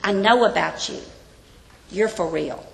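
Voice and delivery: gentle, affirming mentor; a mentor affirming his student; warm affirmation. Pretend. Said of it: "he comes very positive".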